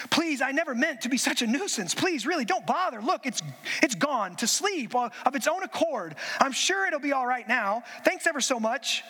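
a hint of a nervous, hedging ghost; flustered ghost making excuses to the angel; lightly voiced flustered ghost. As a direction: stall politely, embarrassed. Ghost voiced in read story.

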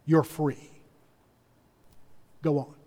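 a curt, gruff soldier releasing a prisoner; a Roman soldier letting Barabbas go, low and gruff. Retold or imitated. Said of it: "a Roman soldier gruffly says".

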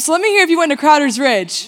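rally the room to cheer back; calling out. Real, not acted. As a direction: emcee shouting a crowd prompt. Calling out to the crowd.

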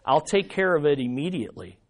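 Jesus gently soothing his mother, soft and low. Retold or imitated. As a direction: ease it out tenderly to his mother. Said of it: "Jesus could have said very gently".

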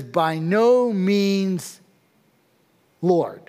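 a hint of a stubborn Peter, slow and drawn out; Peter refusing. Preacher voicing Peter's refusal to God, slow and stubborn. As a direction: drag out the refusal, lightly voiced. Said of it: "He says".

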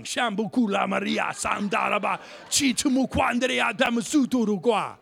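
rapid-fire ecstatic syllables, hammed up; mock speaking in tongues. Preacher reacting to the clerk's promise, mock tongues. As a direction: burst into comic tongues. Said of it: "So I go right to tongue".

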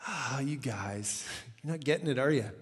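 soft, sighing mild reproach; gentle chiding. Retold or imitated. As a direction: sigh it like a patient teacher. Voices Jesus gently chiding disciples.

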